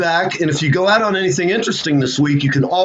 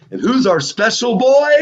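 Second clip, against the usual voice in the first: teasing stage banter; 6 semitones higher than usual. Retold or imitated. Imitating bandmate's stage banter.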